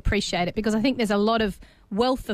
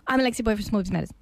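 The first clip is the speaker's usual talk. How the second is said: rattled off fast, words tumbling together; hurried, run-together networking intro; rushed name introduction; much faster than usual. Shown as a demonstration. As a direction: race through it without any pause. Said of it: "we don't pause and allow".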